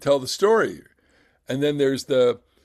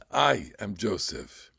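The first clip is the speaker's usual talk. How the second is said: restrained reveal; 4 semitones lower than usual. Acted. Settling into the restrained reading.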